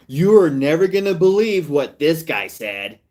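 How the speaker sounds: mocking a reaction youtuber teasing; clickbait host voice. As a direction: tease the clip like a hype host. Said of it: "And they said".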